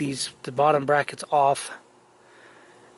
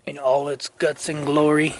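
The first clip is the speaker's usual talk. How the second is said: throat catching, a bit rough; hoarse throat. Real, not acted. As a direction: talk through a scratchy throat. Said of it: "I'm choking up on myself".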